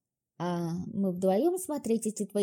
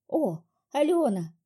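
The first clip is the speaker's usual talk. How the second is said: high, slow pleading drawl; 4 semitones higher, 3 dB louder than usual. A narrator's reading. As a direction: stretch out her name, begging. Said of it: "умоляюще протянула эльфийка".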